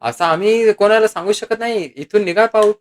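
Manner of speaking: mildly acted disdain; contemptuous. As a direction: send the person away with scorn. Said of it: "तुच्छतेने म्हणाला".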